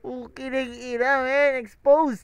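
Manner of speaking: loud, laughing hype at the diss; hyped reaction. Real, not acted. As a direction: shout it out like the crowd just went wild. (malakas na sigaw sa gulat at tuwa)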